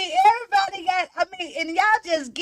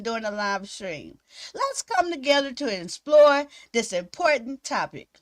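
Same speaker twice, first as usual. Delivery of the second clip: reading intro aloud. Shown as a demonstration. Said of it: "this is supposed to be my intro".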